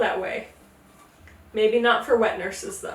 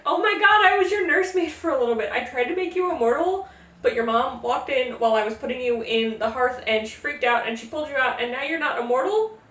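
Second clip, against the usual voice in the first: excited recognition. Retold or imitated. Demeter recognizes the grown baby.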